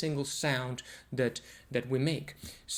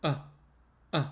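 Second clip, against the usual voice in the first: glottal catch sounds. Shown as a demonstration. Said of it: "vocal folds together".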